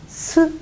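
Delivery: 스 as a lone hiss with a faint vowel; isolated S sound. Shown as a demonstration. Teacher reading the first consonant alone, isolated 스. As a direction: set 스 apart as its own sound. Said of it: "하고 소리를 내게 되고요".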